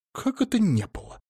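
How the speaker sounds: high, alarmed disbelief; agitated. Acted. Lyudmila alarmed at her friend's denial, agitated disbelief. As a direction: jump in, suddenly worried. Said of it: "сразу заволновалась Людмила Фёдоровна".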